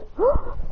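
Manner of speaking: high, breathy acted gasp; sharp gasp. He wakes at the window shooting fire, sharp gasp. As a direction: suck in a sudden breath.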